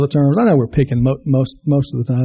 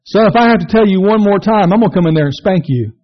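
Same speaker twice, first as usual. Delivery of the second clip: last-straw threat; dad losing patience with his son; exasperated dad; 5 semitones higher than usual. Acted.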